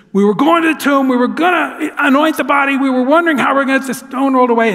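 out of breath, words tumbling out; breathless rush. Acted. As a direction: blurt it all in one gasping rush. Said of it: "and she's out of breath".

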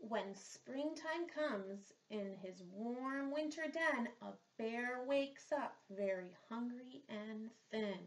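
put-on children's story narration; storybook reading. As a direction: read it like a picture book at story time. Reads picture book aloud.

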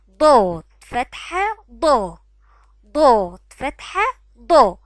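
ضاد فتحة ضا drawn out, mouth wide open on ضا; slow syllable drill. Shown as a demonstration. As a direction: spell ضا out slowly and loudly for children. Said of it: "ننطق الحرف عليه الفتحة بنعمل إيه ببقنا". (تهجئة بطيئة وعالية مع فتح الفم في ضا)

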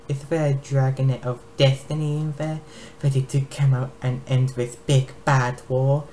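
lightly voiced taunting dragon; mocking dragon queen. Dragon queen taunts the unhatched egg, mocking. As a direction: tease the egg with scorn.

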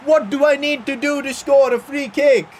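high, agitated outburst at a near miss; exasperated disbelief. Real, not acted. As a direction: protest in real disbelief. Perfect free kick misses.

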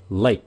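"Lake" with the breath caught at the K; stopped final K. Shown as a demonstration. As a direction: cut off "Lake" in the throat. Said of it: "Cái cổ các bạn phải chặn cái hơi lại". (chặn hơi ở cuối chữ "Lake")

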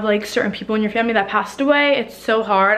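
breathless while talking; out of breath. Real, not acted. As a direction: talk a little winded. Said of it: "I'm out of breath".

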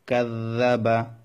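"কাযযাবা" with the middle consonant doubled. Shown as a demonstration. Teacher demonstrates tashdid to students, "কাযযাবা" with doubled middle consonant. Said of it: "তাসদিদযুক্ত অক্ষর দুইবার উচ্চারিত হয়".

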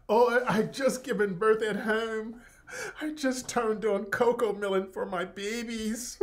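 hammed-up fake sobbing, breaking into laughs; mock crying. Host mocks the author's excuses with hammed-up fake sobbing. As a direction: whine it out like a weepy victim, cracking up.

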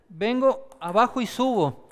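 slow, deliberate walk-through of the stroke. Shown as a demonstration. Coach slowing down to show the serve. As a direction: spell out each move slowly for the students. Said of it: "Voy a hacerlo un poco más lento".

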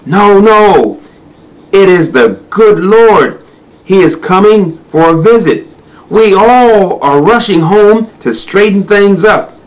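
high, excited character voice; scurrying hyena. A narrator's reading. Hyena rushing home for the Lord's visit, excited. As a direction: announce the big news in a high voice. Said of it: "she said as she went scurrying".

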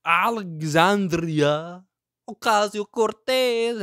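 "Alexandria Ocasio-Cortez" said slowly, every syllable stretched; over-pronounce "Alexandria Ocasio-Cortez" slowly and carefully; drawn-out name. Shown as a demonstration. Host carefully sounding out the politician's full name, slow and stretched. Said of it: "however she wants to be pronounced".

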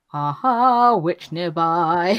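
slow, gloating mock announcement; hammed-up eureka; mock triumphant. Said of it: "the gem starts glowing".

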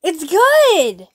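loud, pushy insistence; insisting loudly. Real, not acted. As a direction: make mom try it. Urging mom to try sandwich.

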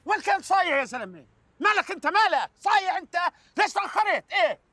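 high-pitched angry yelling at a late worker; angry scolding. Acted.

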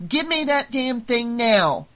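high, loud and slow command; demanding. Acted. Marge ordering her daughter to hand over the hat, loud. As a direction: snap each word out, grabbing for it. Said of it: "demanded Marge".

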